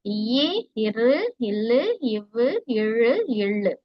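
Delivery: இரு, இல்லு drawn slowly at middle weight; medium-pressed consonants. Shown as a demonstration. Teacher repeating idaiyinam for pupils, in-between consonants. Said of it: "வல்லினத்துக்கும் மெல்லினத்துக்கும் இடையில".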